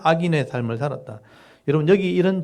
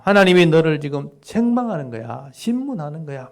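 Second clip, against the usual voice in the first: mildly raised sharp accusation; snapping at him; 2 semitones higher, 3 dB louder than usual. Shown as a demonstration. Eliphaz snapping at suffering Job, mild sharp accusation. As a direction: fire the words at Job. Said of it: "막 이렇게 막 쏘아붙이는 겁니다".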